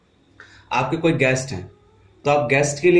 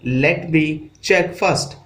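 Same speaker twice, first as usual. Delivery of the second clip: slow model phrase; much slower than usual. Shown as a demonstration. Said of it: "let me को let me भी कहते हैं".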